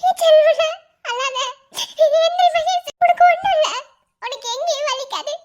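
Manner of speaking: high, loud crying consolation; tearful comfort. Acted. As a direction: comfort him through sobs. Mother comforts son, crying. (அழுகையுடன் உரத்த ஆறுதல்)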